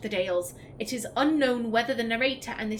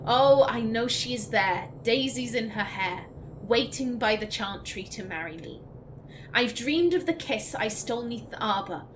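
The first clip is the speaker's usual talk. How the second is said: poem reading. Acted. Reads the song lyrics aloud.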